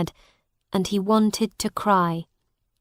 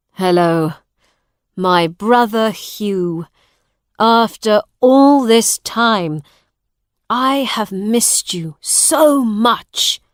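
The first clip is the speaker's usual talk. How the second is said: tender greeting; 6 dB louder than usual. Acted. Long-lost brother greets Hugh.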